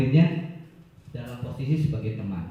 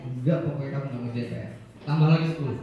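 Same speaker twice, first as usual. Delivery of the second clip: curt punisher; much faster than usual. Acted. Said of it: "itu penghukum ya".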